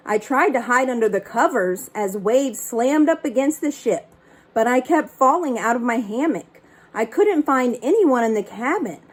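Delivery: lively read-aloud storytelling; story narration. A narrator's reading. Librarian reading a picture book to kids.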